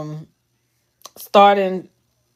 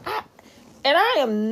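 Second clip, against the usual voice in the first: about to cry; 6 semitones higher than usual. Real, not acted. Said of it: "but I'm about to cry".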